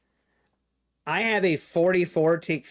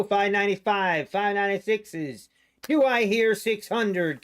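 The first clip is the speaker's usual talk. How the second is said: auctioneer; 5 semitones higher than usual. Pretend. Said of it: "Maybe I'll do my auctioneer voice".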